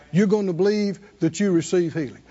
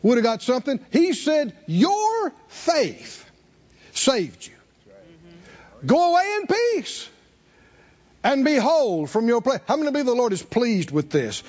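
raised, insistent preacher's delivery; emphatic preaching; 4 semitones higher than usual. Acted. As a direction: preach it with drive, pitched up. Preaches at high pitch.

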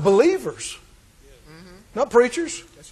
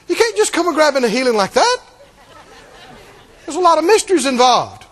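mock scolding preacher; 2 semitones higher than usual. Mocking a reprimanding preacher.

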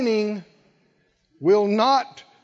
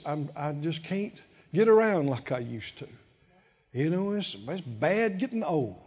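soft, feeble mock complaint; quietly hammed-up feeble whine; weak complaining; 4 semitones lower, 4 dB quieter than usual. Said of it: "Let the weak say".

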